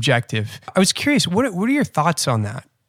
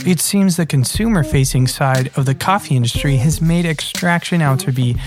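measured, scripted host narration; podcast intro. Acted. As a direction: read the show's opening to listeners.

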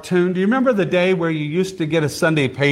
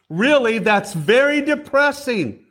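higher, put-on hurt Lucy voice; mock upset; 7 semitones higher than usual. Lucy complains to Charlie Brown, mock upset. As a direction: whine it a little, like a cartoon girl. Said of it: "This upsets Lucy".

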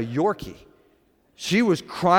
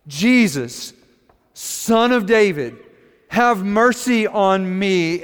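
acted cry for mercy, raised voice; shouted plea; 3 semitones higher, 4 dB louder, slower than usual. Feisty woman running up to Jesus, shouted plea. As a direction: call out beseechingly, drawing the words out. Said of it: "came running up to us shouting".

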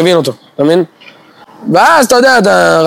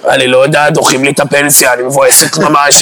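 lightly voiced sulking woman; whiny woman; 7 semitones lower than usual. Mocking a colleague who dumps her woes, mopey. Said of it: "והיא כזה".

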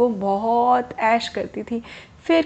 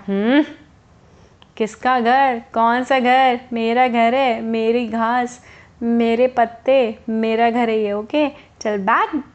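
lightly voiced sleepy grump, a bit louder; grumpy rabbit; 3 dB louder, slower than usual. Woken rabbit waving off the bird, mild grumpy voice. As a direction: brush her off, half awake and stubborn.

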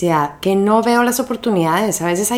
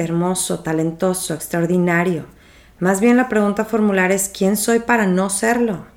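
measured, earnest reading of an inspiring text; solemn inspirational reading; reading a poem aloud. Acted. Reads Marianne Williamson text aloud.

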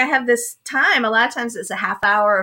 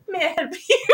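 put-on failed British accent; 6 semitones higher, faster than usual. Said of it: "I can't do a British accent".

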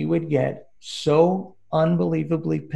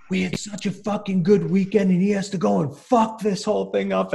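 mild mock yell; 6 semitones higher, 3 dB louder than usual. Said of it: "He's screaming in my ear".

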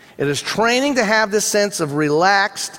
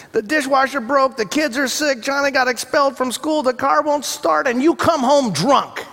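frazzled wife; 6 semitones higher than usual. Retold or imitated. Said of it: "She said".

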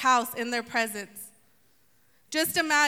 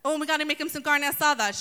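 excited hostess; faster than usual. Pretend. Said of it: "She's so excited".

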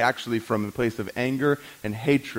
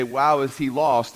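drawn-out amazement; slower than usual. Retold or imitated. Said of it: "we would look at one and say".

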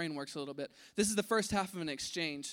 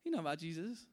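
excited; 6 semitones higher, faster than usual. Retold or imitated. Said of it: "he's probably excited".

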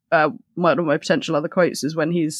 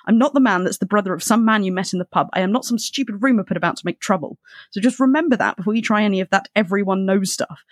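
higher, pressing indignant rant; 4 semitones higher than usual. Acted. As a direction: lecture him hard, one point after another. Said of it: "Good ranting".

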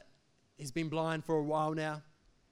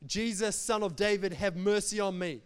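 raised voice, calling out for mercy; crying out; 4 dB louder than usual. Acted. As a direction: read it as a blind man's plea, mildly raised. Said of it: "And he cried out".

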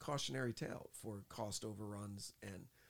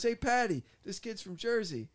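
loud, high call to his wife; retold shout over to someone; a rock star; 12 semitones higher, 12 dB louder than usual. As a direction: imitate a star hollering amused news.

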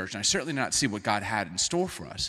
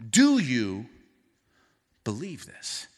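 earnest question; slower than usual. Shown as a demonstration. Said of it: "That's the question".

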